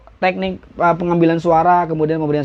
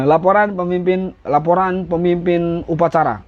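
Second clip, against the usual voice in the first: laporan upacara. Shown as a demonstration. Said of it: "Gitu aja".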